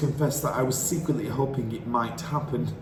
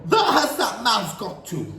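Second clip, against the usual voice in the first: higher, a touch of a laugh; mutter, looking around; witch searching; 7 semitones higher, 3 dB louder than usual. A narrator's reading.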